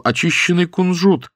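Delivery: high-pitched narrated exclamation; crying out. A narrator's reading. Porter tries another answer on the woman, crying out. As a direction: raise the pitch as if calling out an answer. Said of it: "И он вскричал".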